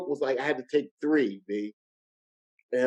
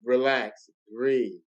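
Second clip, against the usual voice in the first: low-key, measured self-talk; steady yourself, pausing between words; retold calm, softening toward the end; calming himself; 3 semitones lower, 4 dB quieter, slower than usual. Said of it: "then that's when I said, "Okay, relax".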